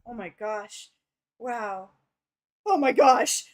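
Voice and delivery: stunned then squealing; giddy after a kiss; flustered gushing. Acted. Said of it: "they're both like".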